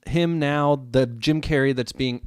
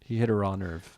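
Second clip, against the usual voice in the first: whispered aside; hushed teasing whisper; 3 semitones lower, 4 dB quieter than usual. Real, not acted. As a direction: breathe it as a sly whisper.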